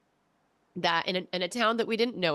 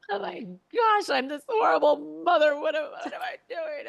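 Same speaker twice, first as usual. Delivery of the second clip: higher, louder, hammed-up guilty panic; mock panicked guilt; 8 semitones higher, 4 dB louder than usual. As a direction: play the horrified mother, half-joking. Guilty mom moment.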